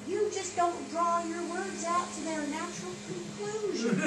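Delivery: imitating Texan girls, laughing. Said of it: "the Texan girls told us that we cut our words off".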